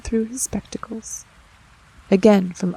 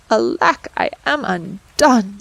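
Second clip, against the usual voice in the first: sad tailor; 4 dB louder, slower than usual. Acted. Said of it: "went sadly to bed".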